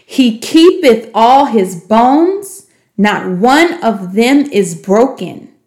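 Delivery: measured, slowing reading of scripture; scripture recitation. Shown as a demonstration. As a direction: recite it like a memory verse, slowing at the end.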